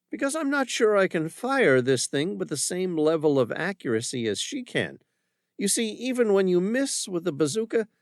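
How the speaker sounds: armed woman calmly warning the commander; calm and collected. Acted. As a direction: lay out the danger evenly. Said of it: "her voice calm and collected".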